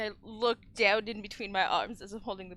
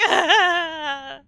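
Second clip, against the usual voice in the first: happy tears; 4 semitones higher, 7 dB louder than usual. Acted. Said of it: "more happy tears".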